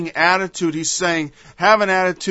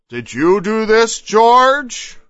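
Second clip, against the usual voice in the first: louder, higher demand to George; accusing question; 4 semitones higher, 5 dB louder, much slower than usual. Acted. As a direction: confront him with the question.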